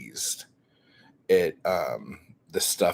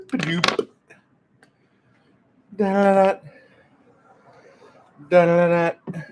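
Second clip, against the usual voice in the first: alien voice; 8 semitones higher, 9 dB louder than usual. Acted. Squeaky nonsense voice while crafting.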